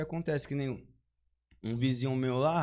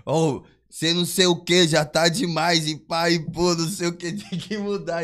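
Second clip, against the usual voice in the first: scolding manager; 4 semitones higher, 7 dB louder than usual. Retold or imitated. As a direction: scold him like a fed-up manager.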